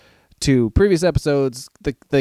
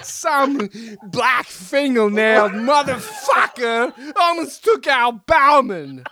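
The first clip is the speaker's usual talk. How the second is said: laughing read; 6 semitones higher, slower than usual. Real, not acted. Laughing retelling of letter.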